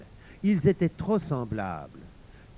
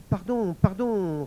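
pleading; 6 semitones higher, slower than usual. Acted. La femme implore le démon.

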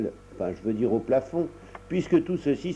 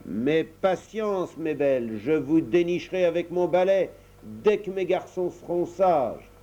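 mock threat; 5 semitones higher than usual. Mother threatens spiders with broom.

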